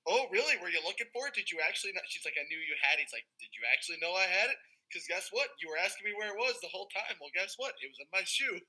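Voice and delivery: lifted, rising teases building to the reveal; mock-smug gloating. Castmate taunting a rival about the idol, mock-smug.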